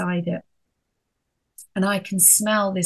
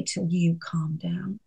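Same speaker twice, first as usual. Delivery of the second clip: aside whisper; 5 dB quieter than usual. Shown as a demonstration. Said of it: "I didn't say".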